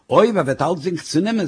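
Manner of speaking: mild, reasoning retort; unfazed husband's comeback; dismissive echo. Acted. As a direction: toss the worry back at the speaker. Husband throws her words back.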